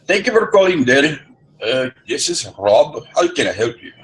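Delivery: high, loud chipper phone-agent voice; sing-song customer-service hello; the Dell agent answering the phone, high and chipper; call-center greeting. Retold or imitated.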